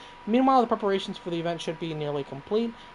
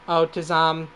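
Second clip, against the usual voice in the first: robot voice; 4 dB louder than usual. Acted. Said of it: "the robot voice".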